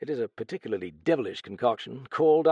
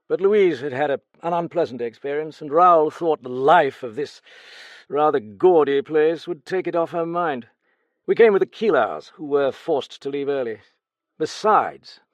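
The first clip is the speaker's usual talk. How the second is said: a lightly voiced, raised-pitch guarded gentleman; Vautrel's reply; 5 semitones higher, 9 dB louder than usual. Vautrel answering the detective, lightly voiced and guarded. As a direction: answer coolly, a touch higher than the narration.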